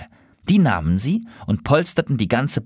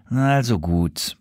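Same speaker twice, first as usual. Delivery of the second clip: groaning; slower than usual. Acted. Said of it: "stöhnte er".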